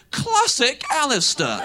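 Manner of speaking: high, slow loud quip; mock-familiar loud jibe; shouted back. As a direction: call it out across the bus. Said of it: "Real loud".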